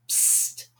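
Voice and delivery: unvoiced hiss for attention; a sharp whispered psst. Narrator hisses to get attention.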